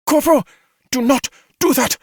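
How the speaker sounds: high, loud commanding shout. A narrator's reading. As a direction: shout the order. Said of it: "Xi shouted".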